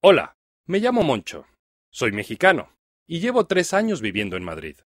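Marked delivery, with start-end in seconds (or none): none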